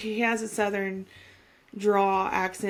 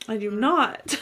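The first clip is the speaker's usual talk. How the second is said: indignant protest with a laugh; mock-offended and giggly; laughing denial; slower than usual. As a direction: deny it, amused. Retold denial of the accent.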